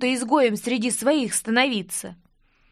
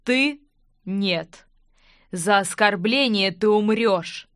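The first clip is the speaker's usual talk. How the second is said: cold death sentence; slower than usual. Acted. King sentences him to death.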